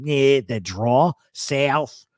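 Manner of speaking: slow South Philly "eh"; older Philly guy's accent; South Philly drawl. Shown as a demonstration. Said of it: "really have that".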